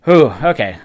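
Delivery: breathless after rushing; winded, catching breath. Real, not acted. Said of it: "I am out of breath".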